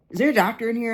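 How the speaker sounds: acted call-out at moderate volume. Acts out calling into second cafe.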